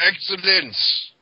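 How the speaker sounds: high, loud, drawn-out proclamation; hammed-up announcement, stretched out; mock grand shout. Crowing during the promo parody, mock grand shout.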